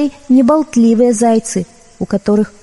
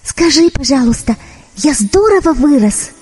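kitten voice; 5 semitones higher than usual. Acted. Kitten asks fir tree.

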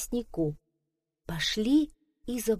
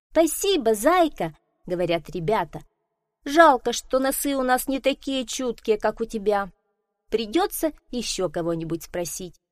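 put-on lightly higher polite children; a hint of eager kids; children's voices; 4 semitones higher, 4 dB louder than usual. Children answer hare. (слегка детские голоса)

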